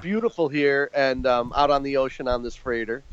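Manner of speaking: tinny speakerphone sound; talking over a speakerphone; bluetooth call mic. Real, not acted. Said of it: "I'm hearing a little s".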